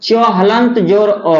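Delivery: च हलंत जोर अ spelled out slowly; slow breakdown. Shown as a demonstration. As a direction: split च into हलंत plus अ, slowly. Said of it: "ये इसका देखिए". (धीरे धीरे च हलंत जोर अ)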